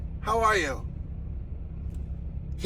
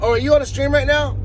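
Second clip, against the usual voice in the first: higher, louder retold phone question; imitating the caller; 8 semitones higher, 5 dB louder than usual. Streamer retelling a phone call to viewers, imitating the caller. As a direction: lightly mimic a caller's surprised question. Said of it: "She called".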